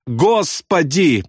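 high, drawn-out wail; piercing lament. A narrator's reading. Airman still in mortal terror, piercing lament. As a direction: wail to God, slow and high. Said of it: "пронзительно причитал он".

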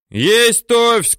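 loader's loud shouted answer. A narrator's reading. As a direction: yell the confirmation back. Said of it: "кричит третий номер".

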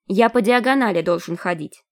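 lightly voiced thin little voice; a hint of a thin, piping voice. A narrator's reading. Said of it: "заявлял кто-то тонким голосом".

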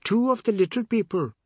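high, frightened announcement; alarmed woman spotting spirits; a touch of fear; startled whisper-like alarm. A narrator's reading. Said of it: "A woman's voice said".

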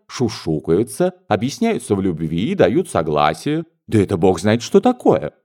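mother fretting over scolding to come, rising to outrage; mother's fretful rant. Acted. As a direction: work herself into indignation.

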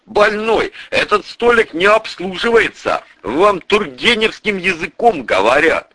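a hint of a snooty waiter; mock rude clerk. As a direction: sneer it like a rude official. (насмешливо, как хамка-официантка)

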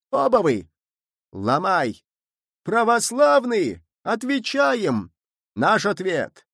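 high, drawn-out crowd cries; mob shouting. A narrator's reading. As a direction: rouse the villagers to break in. Angry mob yelling at Romas. (толпа кричит, протяжно)

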